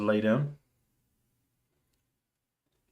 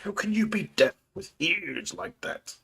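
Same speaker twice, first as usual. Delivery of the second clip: whisper; 11 semitones higher than usual. Acted. Whispered line from a film.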